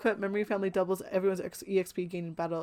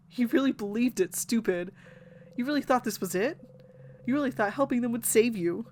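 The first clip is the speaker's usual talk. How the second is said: bitter self-mockery; 4 semitones higher, 3 dB louder than usual. Siffrin's bitter inner mockery.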